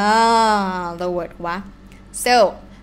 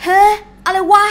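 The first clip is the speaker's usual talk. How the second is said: baffled; 10 semitones higher, 8 dB louder, much faster than usual. Shown as a demonstration. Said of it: "you feel like".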